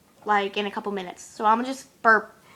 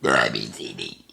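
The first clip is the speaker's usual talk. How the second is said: letters belched low, fading out; burped alphabet; slower than usual. Shown as a demonstration. Burping the alphabet for viewers in one belch. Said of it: "how far I can get in the alphabet".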